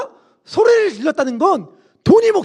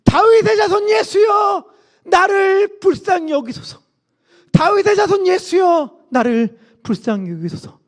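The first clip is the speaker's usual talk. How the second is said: high, drawn-out shouted plea; louder crying out; 7 semitones higher than usual. Acted. Undaunted Bartimaeus calls to Jesus for mercy, crying louder. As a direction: shout slowly and high, easing off at the end. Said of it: "더 크게 소리 질렀어요".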